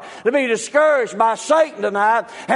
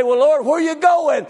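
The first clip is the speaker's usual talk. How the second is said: disciples' question; 6 semitones higher than usual. Acted. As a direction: cry out as the confused disciples. Disciples ask Jesus, acted.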